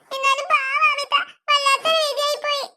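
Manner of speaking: put-on tearful pity; mock lament; fake crying. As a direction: pretend to be upset, lightly weepy. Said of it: "കരയണ്ട ചക്കി".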